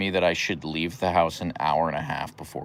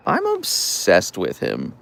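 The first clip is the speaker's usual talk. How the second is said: slow doting; 4 dB louder, much slower than usual. Real, not acted. Doting on her dog.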